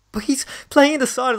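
high whispered aside, slow. Retold or imitated. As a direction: whisper it so the others won't hear.

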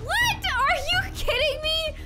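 high, soft incredulous question; acted disbelief. Princess hears husband was seen with another: high disbelief.

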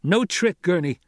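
high-pitched, pained denial; terrible sadness. A narrator's reading. Son to his mother's captor, pained sadness. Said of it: "such a note of terrible sadness".

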